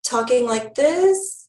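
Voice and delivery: drawn-out, slow upspeak on "this". Shown as a demonstration. Presenter showing webinar attendees a bad habit, upspeak. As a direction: stretch "this" out slowly with a questioning lilt. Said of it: "So if you are talking like this".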